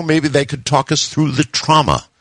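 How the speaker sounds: high-pitched, lightly voiced daughter; eldest daughter. A narrator's reading. Daughter asks dad about emergency help, lightly voiced. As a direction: lightly voice a girl by raising the pitch. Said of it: "my eldest daughter wanted to know".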